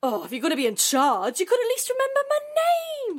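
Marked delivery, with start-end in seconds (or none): 1.4-3.2 fast, high rising complaint; indignant outburst. Acted. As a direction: blurt it out, offended. Indignant nameless disciple complains.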